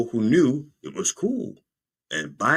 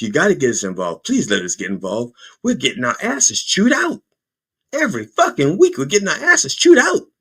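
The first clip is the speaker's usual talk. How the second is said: pleading Congress; 5 semitones higher than usual. Retold or imitated. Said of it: "But Congress is like".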